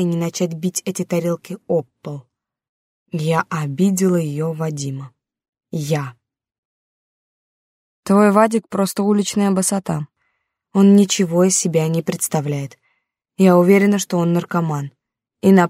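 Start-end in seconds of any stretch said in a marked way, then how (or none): none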